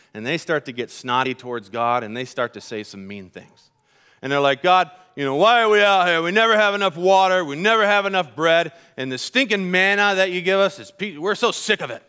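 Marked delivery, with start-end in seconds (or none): 4.6-12.0 grumbling complaint. Retold or imitated. Israelites in the desert grumbling at God, whiny. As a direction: complain like cranky travellers fed up. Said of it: "And they're grumbling".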